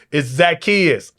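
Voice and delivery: Zacchaeus said slowly and firmly, each syllable leaned on; slow insistent correction naming Zacchaeus; slow emphatic correction. Shown as a demonstration. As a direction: set the record straight on Zacchaeus, deliberately. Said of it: "It's not Nicodemus".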